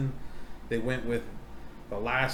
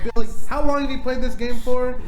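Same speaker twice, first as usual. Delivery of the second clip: higher, louder challenging question; higher, louder grilling of Bill Nye; loud challenge; 10 semitones higher, 9 dB louder than usual. Retold or imitated. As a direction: call Bill out loudly. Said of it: "I'm like".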